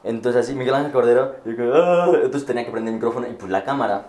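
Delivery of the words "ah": louder, high panicked "ah"; panicked groan. Retold or imitated. Student hearing the teacher call his name, panicked groan. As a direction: let out a startled groan. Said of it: "como que entré en pánico".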